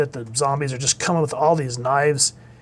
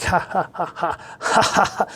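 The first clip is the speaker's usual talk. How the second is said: high, mock laughing fit; imitated laughter; 4 semitones higher than usual. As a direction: act out them bursting into laughter. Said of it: "they just start laughing".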